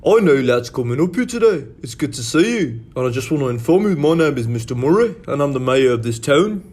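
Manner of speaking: a lightly done British regional accent; a speech in a UK accent; a mayor's greeting in a British accent. Shown as a demonstration. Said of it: "The U K".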